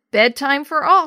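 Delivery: a cheerful call to the whole family; announcing. Acted. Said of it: "she announced".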